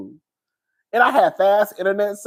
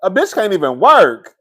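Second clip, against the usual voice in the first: louder, shouted complaint; fed-up shout; 6 dB louder than usual. Real, not acted. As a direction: yell out the frustration. Complaining the internet keeps failing.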